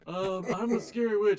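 lightly voiced witch impression; half-hearted scary witch. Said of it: "Jared Leto would do if he was a witch".

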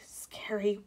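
soft, hushed aside; whisper. A narrator's reading. Nell at the ghost show, whispering. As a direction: say it very softly. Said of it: "whispered Nell".

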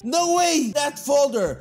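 alarmed. Acted. Alarmed outburst.

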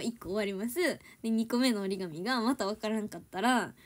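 usual speaking voice

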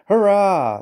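high, loud, drawn-out hurrah; jubilant cheer. A narrator's reading. Thomas cheers as his plan works, jubilant. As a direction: let out a long triumphant whoop. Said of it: "laughed Thomas".

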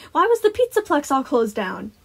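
put-on high, loud little-girl voice; curious child. A narrator's reading. Girl asking Sun about the closure, inquisitive. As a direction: demand to know like an inquisitive kid.

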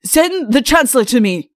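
irate king giving orders; angry. A narrator's reading. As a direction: order it crossly at high volume. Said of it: "said an angry voice".

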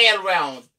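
"around" wrongly said as eh-round; wrong short A. Shown as a demonstration. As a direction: start "around" with the A of cat, wrongly. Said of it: "la m pa ka di ni". ("around" mal pwononse ak A kout)

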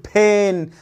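"pen" with the E stretched long; imitated over-long "peeen"; drawn-out vowel. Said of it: "ما تمدش في الحرف".

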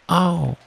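short high ow of a bump; yelped "ow". A narrator's reading. Piglet comes down with a bump, high yelped ow. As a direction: yelp on landing. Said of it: "as he came down, he said".

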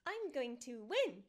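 lightly voiced game heroine, slow and punched on the last word; deliberate victory catchphrase, drawn out; D.Va impression. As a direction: say it like a slow, confident game hero's line. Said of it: "Put on your best non-offensive Korean accent".

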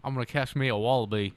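put-on Australian twang; mock Australian accent. Teasing friends about Australia, mock Australian accent. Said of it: "It's the accent".

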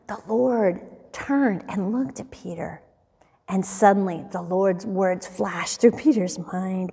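hushed-down storytelling with weighty pauses; solemn story narration. A narrator's reading.

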